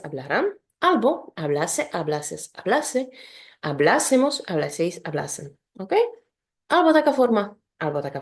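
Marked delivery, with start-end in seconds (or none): 3.6-4.4 hablásemos with a raised second syllable, BLÁ; stressed stem vowel. Shown as a demonstration. Teacher showing learners the alternative ending, hablásemos stressed on BLÁ. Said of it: "akcent będzie zawsze".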